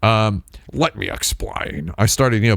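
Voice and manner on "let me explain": lightly put-on cartoon duck voice, softer; Donald Duck. Self-conscious explainer hiding behind a light cartoon duck voice. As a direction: softly explain in a half-hearted duck voice. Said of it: "putting on my Donald Duck voice".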